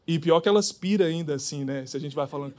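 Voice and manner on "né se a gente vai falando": usual speaking voice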